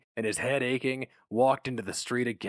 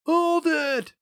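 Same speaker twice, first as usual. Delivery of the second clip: high, louder commanding shout; 6 dB louder than usual. A narrator's reading. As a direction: bark the order to stop. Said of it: "shouted a familiar voice".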